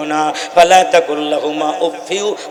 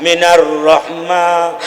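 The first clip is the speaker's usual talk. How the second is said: Quran recitation; much slower than usual. Acted. Quoted verse recited.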